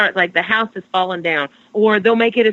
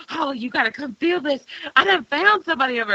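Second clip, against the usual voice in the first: excited; 6 semitones higher, 5 dB quieter than usual. Retold or imitated. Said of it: "But I was real excited".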